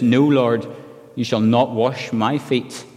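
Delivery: forceful slow stress on not; emphatic refusal. Retold or imitated. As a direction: refuse firmly, hitting the word not. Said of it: "Again, it's emphatic".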